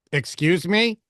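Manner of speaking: mock outraged wife; indignant excuse me. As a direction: bristle at being told no. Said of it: "she'll get louder".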